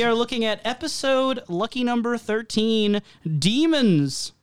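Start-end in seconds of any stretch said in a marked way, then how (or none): 3.4-4.3 demon voice. Acted. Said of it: "I did the demon voice".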